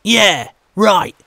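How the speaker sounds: spat back. Acted. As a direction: spit the taunt at him in disgust. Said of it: "the first man spat back".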